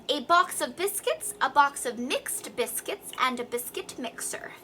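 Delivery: very clear, careful articulation; tongue twister with crisp consonants; excellent diction. Shown as a demonstration. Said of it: "Be very clear with excellent diction".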